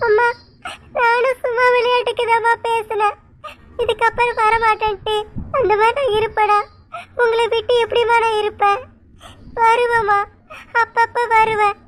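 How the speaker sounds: teary and pleading, voice catching into sobs; a daughter tearfully reassuring her mother, crying. Acted. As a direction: cry through the promise to come home. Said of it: "ரெண்டு பேரும் இப்படி அழுகுறீங்க?".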